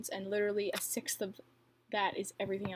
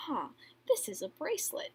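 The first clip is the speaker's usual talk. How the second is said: mock lazy filmer; 9 semitones higher than usual. Mocks lazy unedited video.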